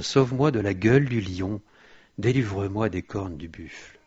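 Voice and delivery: psalm read aloud with bursts of force; preacher proclaiming a prayer from Scripture; declamatory scripture reading. Acted. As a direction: lean hard into the pleas, verse by verse.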